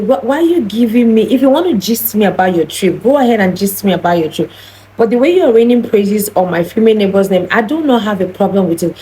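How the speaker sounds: mildly heated retold objection, pitched a bit up; speaking up indignantly. Hurt friend objects to praise of the neighbor, speaking up indignantly. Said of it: "I had to speak up".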